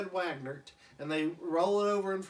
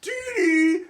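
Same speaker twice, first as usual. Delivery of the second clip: much higher, louder yell across the yard; calling out; 13 semitones higher, 14 dB louder than usual. Retold or imitated. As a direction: holler for your wife from afar. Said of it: "He's like".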